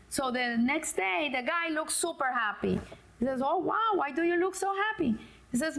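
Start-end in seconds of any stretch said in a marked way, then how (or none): 3.4-5.2 higher-pitched wondering question; impressed and curious; pleased amazement. Acted. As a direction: act out a friend's happy surprise. Friend asks happy man in joke.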